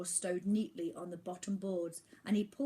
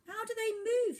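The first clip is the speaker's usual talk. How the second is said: asking; 6 dB louder than usual. A narrator's reading. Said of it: "he asked".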